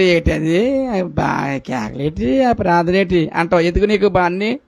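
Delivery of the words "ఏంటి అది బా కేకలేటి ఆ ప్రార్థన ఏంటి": mocking. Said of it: "ఎక్కసంగా ఉండి".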